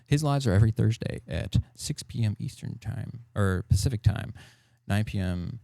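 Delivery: loud, hollered plug; hollering. Real, not acted. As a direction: holler out the show times. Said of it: "Sorry for the holler".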